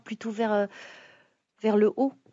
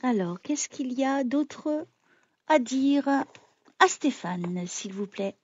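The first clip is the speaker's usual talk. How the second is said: slow spirit invocation; 4 dB quieter, much slower than usual. Acted. Medium asks the spirits.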